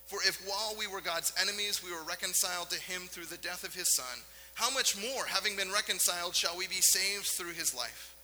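measured, solemn reading of Paul; scripture reading. Acted. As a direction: read it out like the Bible passage it is. Reads scripture passage.

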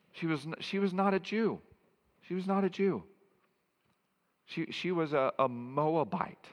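emphatic point. Real, not acted. Preacher stresses Ruth's origin.

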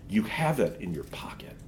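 hushed whisper, unvoiced. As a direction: lean in and whisper it slyly. Witch whispers the temptation.

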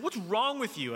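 reenacted angry father; retold angry yell. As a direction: demand it like an exasperated coach. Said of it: "I'm angry".

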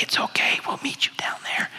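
retold reassuring whisper back. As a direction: whisper it softly to a hesitant wife. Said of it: "And I whisper back".

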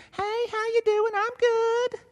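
very high-pitched, fake-friendly southern drawl; phony Southern US small-talk voice. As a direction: put on a sing-out, squeaky southern greeting. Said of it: "That was my southern drawl coming out".

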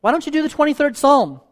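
called out high across the room; an old preacher calling out from the group; old preacher yelling a request at the actor; retold yell out. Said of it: "yelled out to the actor".

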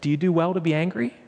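mild, patient questioning; gentle challenge. Acted. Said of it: "God is gentle with him".

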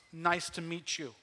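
slow, loud, booming nice to meet you; God's greeting. Shown as a demonstration. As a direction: greet them like God himself, slowly and loudly. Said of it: "This is God's".

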